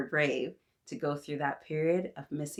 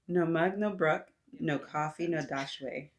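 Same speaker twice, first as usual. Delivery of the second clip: Jamaican proverb in measured phrases; hesitant Jamaican accent, phrase by phrase; attempted Jamaican accent. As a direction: try a light Jamaican lilt. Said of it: "Please forgive the accent".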